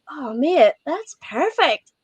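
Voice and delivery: high, drawn-out approval; lilting, high mock praise; mock delighted praise. Retold customer praising the pour.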